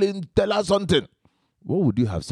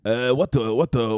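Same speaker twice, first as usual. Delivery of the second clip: put-on Igbo accent. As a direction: question asked in an Igbo accent. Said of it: "So I pick the Igbo accent".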